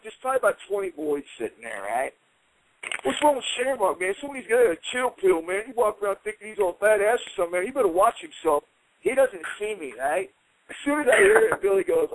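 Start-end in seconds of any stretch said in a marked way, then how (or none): 3.0-8.6 Knobs's taunt. Retold or imitated. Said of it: "I hear this guy go".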